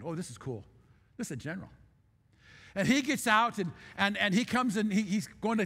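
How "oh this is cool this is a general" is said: awed hush. Retold or imitated. Quiet awed inner thought.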